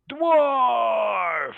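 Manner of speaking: high loud goblin yell of Dwarf; goblin shout. Acted. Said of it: "and he says".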